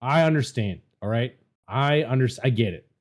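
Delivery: low stern dad voice. Acted. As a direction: scold the room like a fed-up father. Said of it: "Do we get the dad voice?".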